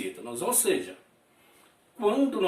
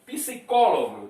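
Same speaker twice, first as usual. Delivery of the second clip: Psicólogo with a strong có; stress on antepenultimate syllable; 3 dB louder than usual. Shown as a demonstration. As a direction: punch the có in Psicólogo. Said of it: "qual é a sílaba mais forte". (Psicólogo com força na sílaba có)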